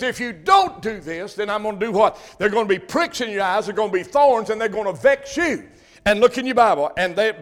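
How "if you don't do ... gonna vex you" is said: God's warning voice. Acted. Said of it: "He says".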